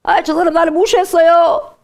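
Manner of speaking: high, loud mock grievance; hurt complaint. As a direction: whine that you were slighted. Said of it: "그때 울어요".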